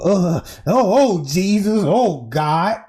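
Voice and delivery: mock wailing in another woman's voice; lightly put-on "oh Jesus" lament; Teresa. Speculator mimicking the mother's reaction, lightly put-on voice. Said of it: "in my Teresa voice".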